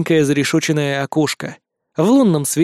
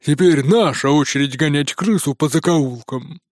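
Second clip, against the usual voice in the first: piglet voice. A narrator's reading. Zhorik's voice continues.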